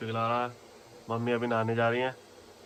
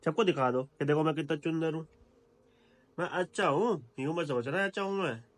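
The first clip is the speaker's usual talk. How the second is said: put-on baby talk; 5 semitones higher than usual. Speaking for baby.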